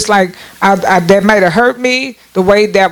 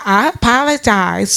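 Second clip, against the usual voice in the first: hollow apology; slower than usual. Retold or imitated. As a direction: drag it out without meaning it. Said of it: "It's like".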